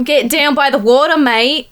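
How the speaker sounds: quick Australian accent sample. Shown as a demonstration. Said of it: "can you do an Australian accent?".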